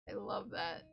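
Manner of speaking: whispered echo of "I love that". Real, not acted. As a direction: repeat it in a whisper. Phrase said twice, second whispered.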